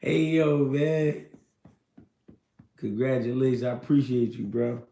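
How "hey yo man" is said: slowed, chuckling retelling; laughing while quoting. Retold or imitated. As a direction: quote it through a laugh. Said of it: "Motherfucker says".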